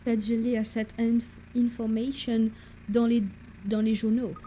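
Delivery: halting French in a shaky attempt at English accent; retry the English accent, word by word. Professor asks his assistant about the newspapers, attempted English accent. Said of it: "mon accent anglais qui vire vers l'allemand".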